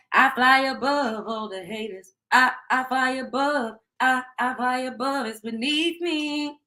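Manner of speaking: slow, dreamy quote of Kenny, lightly voiced; quoting Kenny. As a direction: float above it all, drawn out and lofty. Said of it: "Kenny said".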